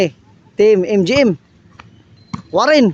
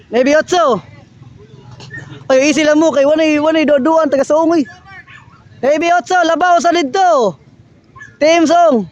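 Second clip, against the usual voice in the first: live play-by-play; 6 semitones higher than usual. Acted. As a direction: call the rally as it happens.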